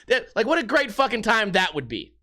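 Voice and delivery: ordinary talk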